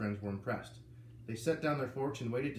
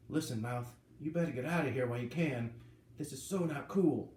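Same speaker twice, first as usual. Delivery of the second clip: put-on teen girl voice. A narrator's reading. Soccer girl warns Roy to leave, lightly voiced bored teen.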